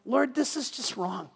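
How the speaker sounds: soft, slow inward groan to God; inner cringe. Retold or imitated. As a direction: say it under your breath, dismayed. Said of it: "you cringe inside going".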